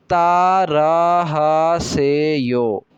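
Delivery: तारा हासेयो said very slowly, each syllable clear; slow model phrase. Shown as a demonstration. Korean teacher modelling तारा हासेयो slowly for repetition. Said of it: "तारा हासेयो का मतलब होता है repeat कीजिए".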